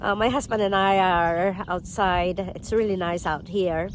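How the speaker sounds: stuffy nasal voice from a cold. Real, not acted. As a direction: speak through a blocked nose. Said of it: "I apologize about my nasally voice".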